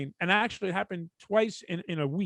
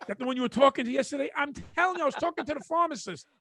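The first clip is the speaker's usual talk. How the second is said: quarrelling couple; 5 semitones higher than usual. Acted. Acting jealous couple's quarrel.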